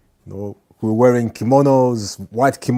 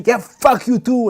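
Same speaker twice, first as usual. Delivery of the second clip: mock retort; 13 semitones higher, 4 dB louder than usual. Acted shouting match.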